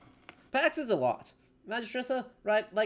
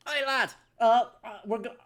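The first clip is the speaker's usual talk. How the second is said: a louder, higher call in movie-style English; Les Mis English accent; 3 semitones higher, 4 dB louder than usual. Acted. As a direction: hail the lad like a Les Mis Frenchman played English. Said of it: "going for the Les Miserables, the movie".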